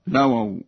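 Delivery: «لووا» as "lawaw", single w; light first waw. Shown as a demonstration. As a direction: say «لووا» without doubling the first w. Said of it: "بتخفيف الواو الأولى". («لووا» بتخفيف الواو الأولى)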